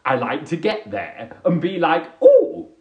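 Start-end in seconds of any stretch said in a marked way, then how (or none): 2.2-2.7 high, loud surprised "oh"; acted surprise. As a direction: exclaim it in mock wonder. Acts arriving in a room.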